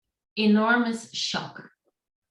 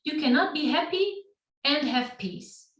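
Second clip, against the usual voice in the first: put-on light Indian accent, cannot stressed; 5 semitones higher than usual. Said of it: "with this Indian accent".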